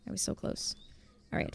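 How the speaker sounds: breathless whisper of near miss; whispered regret. Real, not acted. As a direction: whisper it, crestfallen.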